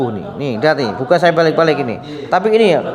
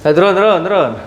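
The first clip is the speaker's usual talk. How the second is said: calling out; 4 semitones higher, 4 dB louder, faster than usual. Real, not acted. Ordering patient to lower down.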